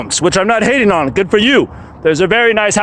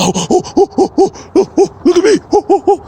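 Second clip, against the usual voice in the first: mock show-off monkey; 9 semitones higher, faster than usual. Mocking show-off posing for photos.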